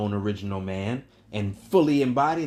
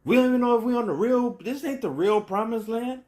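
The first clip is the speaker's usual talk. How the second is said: fired-up preaching; 10 semitones higher than usual. Real, not acted. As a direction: lift it up hard and quick. Preacher building to a peak.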